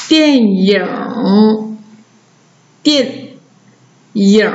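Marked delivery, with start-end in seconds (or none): 2.8-4.5 电 and 影 said apart, each clearly; teacher splitting 电影 into two syllables. Shown as a demonstration. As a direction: model 电 then 影 for the class to repeat. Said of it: "来跟着老师读".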